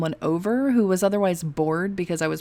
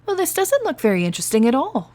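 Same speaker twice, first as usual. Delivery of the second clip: disappointed; 7 semitones higher, 4 dB louder than usual. Acted. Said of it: "Maisie frowned, disappointed".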